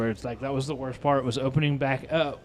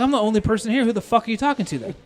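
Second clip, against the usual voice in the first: high, raised-voice confrontation; incredulous, angry comeback, retold; retold pissed-off challenge; 8 semitones higher, 5 dB louder than usual. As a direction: re-enact calling out a customer's lie. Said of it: "I'm fucking pissed".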